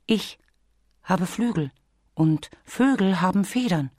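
high, light bee voice; little bee character. Acted. Bee reminds Bear what bears can't do, cautioning. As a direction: voice a small bee, patiently cautioning.

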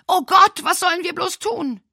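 high, loud panicked cry; Mildred crying out after the shots, horrified; terrified cry. Acted. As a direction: cry out in horror.

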